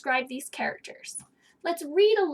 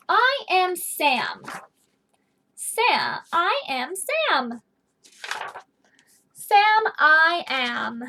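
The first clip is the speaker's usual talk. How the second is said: slow reading; 4 dB louder, much slower than usual. Acted. Teacher reads Sam's opening lines.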